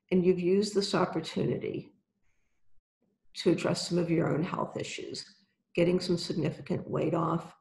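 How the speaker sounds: calm guided visualization, unhurried; right in your ear. Acted. Guided visualization with eyes closed.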